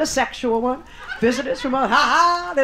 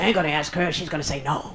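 mock timid men; 9 semitones lower, 5 dB quieter than usual. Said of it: "They say".

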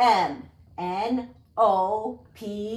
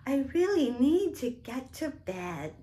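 a gently pleading queen; mildly voiced sleepy queen; 4 semitones higher than usual. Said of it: "she said".

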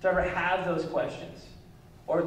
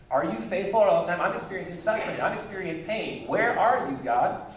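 mocking tone; 3 semitones higher than usual. Shown as a demonstration. Pastor rereads psalm to congregation, mocking God's promises. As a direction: throw the questions back at God with scorn. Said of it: "Do you hear that mocking tone in there?".

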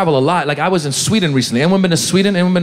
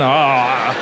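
exhausted groan; 5 semitones lower than usual. Acted. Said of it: "looks like the finish line of a marathon".

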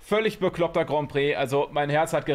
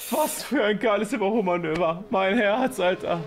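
thrilled; 5 semitones higher than usual. Real, not acted. Thrilled by overtaking move.

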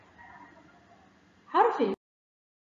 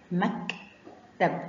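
مكتب split slowly into "mak... tab"; very slow, syllable-by-syllable مكتب; sounded out; 2 semitones lower, much slower than usual. Shown as a demonstration. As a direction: break مكتب after the k, with a pause. Teacher sounds the word out.

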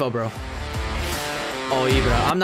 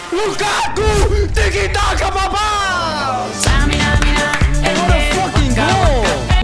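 high, loud, slow victory yell; frat bro; 8 semitones higher, 4 dB louder, slower than usual. Real, not acted. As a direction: scream the goal like a fan. Gamer celebrating a goal.

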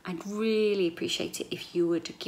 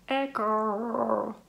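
calling out to test the echo; testing the room's echo; 3 semitones higher than usual. Shown as a demonstration. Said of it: "really echoey in here".

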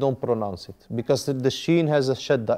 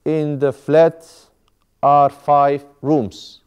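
slow word-by-word model; 4 dB louder, much slower than usual. Shown as a demonstration. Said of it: "Now you're going to say".

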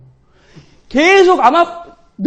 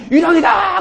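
mock startled cry; 5 semitones higher, slower than usual. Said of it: "그리고 두려워해".

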